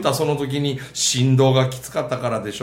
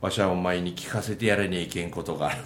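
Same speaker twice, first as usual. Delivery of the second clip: lightly voiced old spirit; 10 semitones lower, 6 dB quieter than usual. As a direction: speak solemnly as the old spirit. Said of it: "は？". (低く静かな貧乏神の口調)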